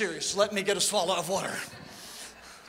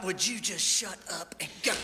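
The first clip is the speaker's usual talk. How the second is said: low, soft, deadpan exasperation; exasperated God; 4 semitones lower, 7 dB quieter than usual. Retold or imitated. God telling the fretting church to stop asking, low and dry. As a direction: lower it and sigh out the impatience.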